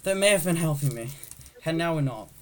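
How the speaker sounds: a touch of loud alarm; alarmed realization. Acted. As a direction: raise the voice as the trouble dawns. Autopilot found switched off, alarm.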